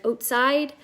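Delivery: "outside" opening like "oat"; Canadian "outside". Shown as a demonstration. East Coaster showing her accent, rounded o in "outside". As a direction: round the first vowel of "outside" to a long o. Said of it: "that's how I say house and a boat".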